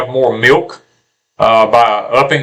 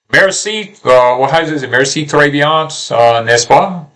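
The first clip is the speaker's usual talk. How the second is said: mock French phrases. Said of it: "What did you just say?".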